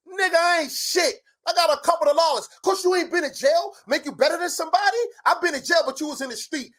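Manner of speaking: a real heated outburst in an argument; heated rant. Real, not acted. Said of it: "You're really emotional right now".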